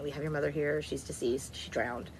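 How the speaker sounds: understated, businesslike delivery of bad news; mock medical examiner, plainly factual; matter-of-fact. Medical examiner informing the daughter of a death, matter-of-fact. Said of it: "very matter of fact".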